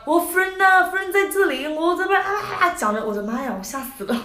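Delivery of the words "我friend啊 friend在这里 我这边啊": slow, Cantonese with English words mixed in; hammed-up Cantonese-English mix; mock Cantonese with English. Imitating the man mixing English into Cantonese. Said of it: "带着这种粤语".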